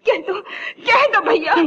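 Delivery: tearful begging, rising on भैया; crying plea. Acted. Mother begging the brother to speak, crying. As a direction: beg through tears.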